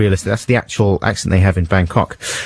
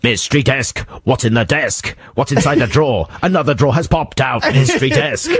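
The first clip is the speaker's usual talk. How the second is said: laughing mock trailer; 4 semitones higher than usual. Repeats jokey trailer, laughing.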